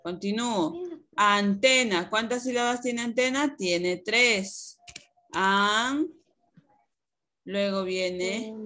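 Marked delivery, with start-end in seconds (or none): 5.3-6.1 "An" sounded out alone, drawn out; first syllable "An" held on its own; single syllable. Shown as a demonstration. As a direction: dictate "An" as a separate syllable. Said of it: "las vamos a dividir en sílabas".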